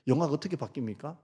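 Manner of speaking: ordinary talk, nothing marked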